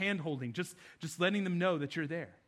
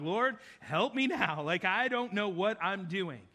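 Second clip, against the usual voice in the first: quick prayer; slower than usual. Retold or imitated. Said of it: "throw up a quick prayer".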